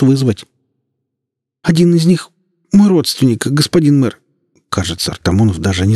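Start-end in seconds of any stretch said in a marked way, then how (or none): 1.6-4.2 high, stammering, pleading voice; frightened policeman. Acted. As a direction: beg for mercy, stuttering with fear. Policeman pleads for his nephew.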